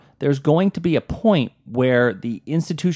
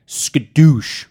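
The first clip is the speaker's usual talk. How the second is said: louder, punched "skadoosh"; crash noise; 6 dB louder than usual. Acted. Host mimicking Thursday's market drop, punchy crash noise. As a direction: make it the sound of a crash.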